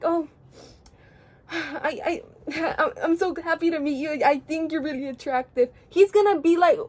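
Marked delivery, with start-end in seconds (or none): 0.0-5.7 mock-nervous stammer with a sigh; unconfident. Admirer nervously approaching a K-pop idol, unconfident. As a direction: act out a softer, hesitant admirer. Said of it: "if you aren't confident".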